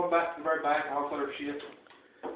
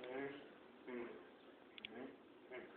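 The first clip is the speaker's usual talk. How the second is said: short low hums, spaced out; soft hums of thinking it over; pondering hums; 9 semitones lower, 30 dB quieter than usual. Retold or imitated. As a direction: hum quietly while weighing options.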